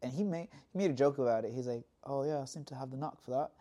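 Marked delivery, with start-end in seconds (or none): 2.0-3.5 put-on Welsh accent. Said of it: "excellent English slash Welsh accent".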